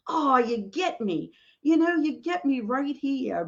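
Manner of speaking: high, tearful voice; moved almost to tears; choked up. Real, not acted. Moved by the answer she got.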